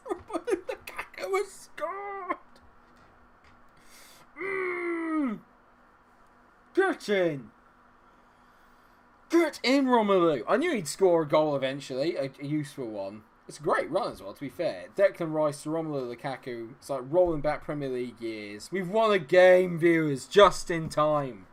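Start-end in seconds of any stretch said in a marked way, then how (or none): 0.1-5.4 very high, drawn-out celebration; ecstatic squeal. Real, not acted. Gamer celebrates the striker's goal, ecstatic squeal. 6.7-10.4 loud, high celebratory yell; triumphant shout. Real, not acted. Gamer celebrates the striker's goal, triumphant shout. 18.7-21.5 loud, high, drawn-out cheer; elated announcement. Real, not acted. Streamer tells viewers of a late win, elated announcement.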